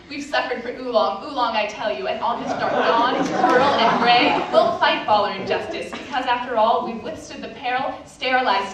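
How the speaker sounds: rally the troops with mock gravity; mock rallying cry. Hipsters conspiring against the ballers, mock rallying cry.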